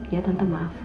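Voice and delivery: soft, meek apology to the aunt; quiet apology. Retold or imitated. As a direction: mumble sorry sheepishly. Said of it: "Tante gue cuma".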